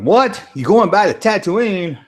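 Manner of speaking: high, incredulous retort; mock disbelief. Streamer voicing her hearing of Tatooine, incredulous. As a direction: throw it back as a startled question. Acting her shocked reaction.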